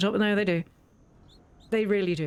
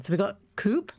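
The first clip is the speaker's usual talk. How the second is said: whisper. Real, not acted. Whispered aside.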